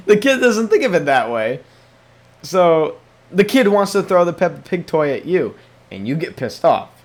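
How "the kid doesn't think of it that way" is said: louder, higher, through a laugh. Real, not acted. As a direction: let the laugh break into "think".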